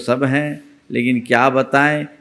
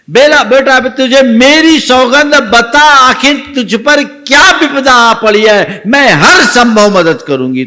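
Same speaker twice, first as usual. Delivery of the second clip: tearful pleading; 11 semitones higher, 8 dB louder than usual. A narrator's reading. Old woman weeps and begs.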